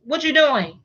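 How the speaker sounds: put-on high, bright child's call; little grandson. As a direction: play the little boy calling out. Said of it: "he be like".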